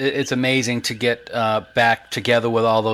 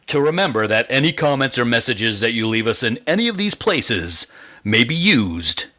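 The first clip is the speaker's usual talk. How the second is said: movie trailer guy. Acted. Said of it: "That almost sounded like movie trailer guy, like Don LaFontaine".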